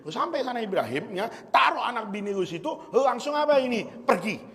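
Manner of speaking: mock Betawi angel giving orders; Jibril in Betawi accent. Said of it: "kalau Jibril Betawi ngomongnya nih".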